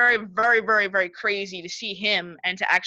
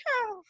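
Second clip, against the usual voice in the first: mock fainting; 12 semitones higher, 7 dB quieter than usual. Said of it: "I'll pass out. I'll be like".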